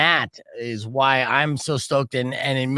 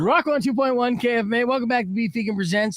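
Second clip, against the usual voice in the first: bright, lifted DJ intro; radio announcer voice; 6 semitones higher than usual. Pretend. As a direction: open the show like a radio DJ. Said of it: "I wanna hear your best radio announcer voice".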